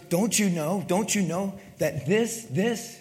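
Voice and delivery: lightly voiced wife, teasing and rising; a hint of the wife scolding him fondly; quoting his wife who teases him about his voice; imitating wife. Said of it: "this is what my wife says".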